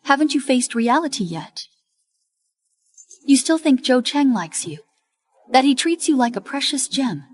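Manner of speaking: a cruel captor mocking the girl's hopes; mocking taunt. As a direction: rub her nose in it. Sister taunting the captive girl.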